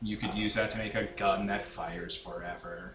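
flat, low, droning monotone voice. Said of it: "I went out of my way to make him monotone".

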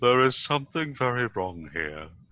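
put-on very loud, booming old horror-film actor voice. Showing off a small range of voices, in Boris Karloff voice. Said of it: "I'll do it in the voice of Boris Karloff".

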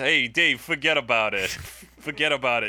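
put-on Italian-American accent, guy voice. Describing an imagined music video scene, a side character speaks: Italian guy voice. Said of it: "where an Italian guy just says".

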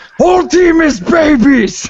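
put-on heavy voice. Giving a quote as the Heavy: Heavy voice. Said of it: "the heavy just kinda sounds like that".

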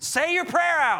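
full-on, loud screaming. Urging the listeners to shout out their prayers, screaming. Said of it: "I don't know why I'm screaming right now".

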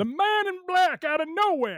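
very high-pitched ringside wrestling announcer call. Trying out how episodes could be called like old-time radio, do the Jim Ross voice. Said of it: "in the voice of Jim Ross".

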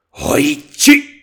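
ferocious, grim, savage shout, very loud. A narrator reads a voice calling the blind man a third time, called savagely. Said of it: "then a third time savagely".

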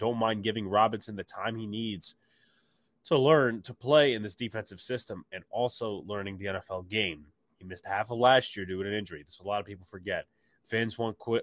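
plain

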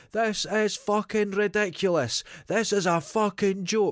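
mock swaggering, high, drawn-out shout. Retelling a young man's outburst in a queue: imitating a man shouting. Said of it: "And he starts shouting".

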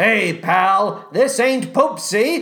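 rough, gruff, growling brutish beast voice. Recounting a stage scene where a beast of a man meets the twink: gruff beast-man growl. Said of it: "that beast man growls".

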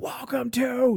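put-on, very slow, drawn-out, mild called-out voice. Retelling how someone across the store greeted new customers: imitating someone screaming. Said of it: "just screamed out".

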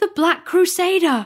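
very high, raw, shrill, piercing scream. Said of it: "he screamed".

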